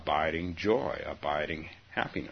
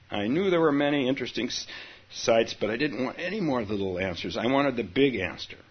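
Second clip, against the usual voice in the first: faster reread; 4 semitones higher, 4 dB louder, faster than usual. Shown as a demonstration. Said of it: "rereads the opening".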